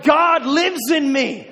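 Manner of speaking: slow, loud and high, each word weighted; emphatic declaration. Acted. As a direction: proclaim it as your own.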